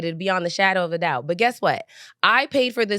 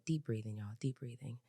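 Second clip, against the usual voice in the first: calming breaths; 8 semitones lower, 18 dB quieter than usual. Real, not acted. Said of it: "box breathing".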